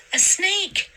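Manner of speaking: put-on high, panicked cry of a girl; edge of panic. A narrator's reading. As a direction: squeal it out, close to panic. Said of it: "high voice sounded on the edge of panic".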